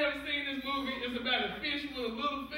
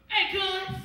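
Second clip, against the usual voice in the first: monkey greeting; 6 semitones higher, 6 dB louder than usual. Retold or imitated. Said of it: "This monkey came up and was like".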